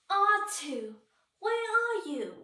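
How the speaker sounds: high, loud emotional robot cry; high-pitched, overwrought robot voice; emotional C-3PO. Acted. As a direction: call out like a fretful, emotional droid. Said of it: "C three P O is very emotional".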